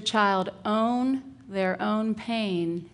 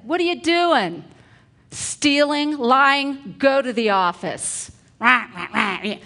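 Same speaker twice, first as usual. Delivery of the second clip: much higher and louder mock tirade; angry scolding; 5 semitones higher, 7 dB louder than usual. Hypothetical teacher yelling at child, loud angry scolding. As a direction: bark at the child like a furious teacher. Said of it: "Had I said".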